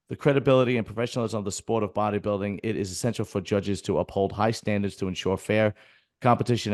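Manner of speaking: reading an official statement aloud; steady, formal reading voice. Shown as a demonstration. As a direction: reads the association's notice aloud. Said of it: "it says".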